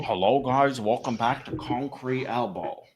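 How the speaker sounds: put-on Asian accent, slowing on the sign-off; slow, imitated Asian-accented greeting; Concrete Elbow. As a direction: mimic a YouTuber's intro in a mock Asian accent. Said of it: "Asian impression of Concrete Elbow".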